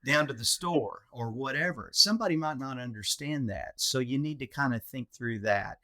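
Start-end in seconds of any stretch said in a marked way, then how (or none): 0.0-1.1 Texan accent. Shown as a demonstration. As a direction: keep the relaxed North Texan sound. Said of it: "Texan accent or my colloquialisms".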